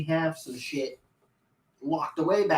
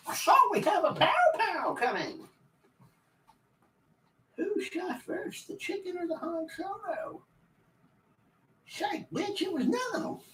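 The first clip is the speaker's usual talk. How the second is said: silly high voice; 12 semitones higher, 5 dB quieter than usual. Pretend. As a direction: play it goofy and squeaky high. Repeats line in silly voice.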